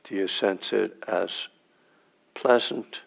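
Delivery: unhurried meditation guide, long silences between phrases; spacious, measured meditation instruction with long pauses; guided meditation. Real, not acted. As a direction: guide them into sitting, phrase by phrase.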